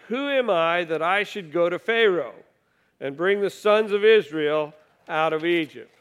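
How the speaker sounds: measured, solemn Bible reading from the pulpit; scripture reading. Acted. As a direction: read each line out like holy writ. Reads verses ten and eleven.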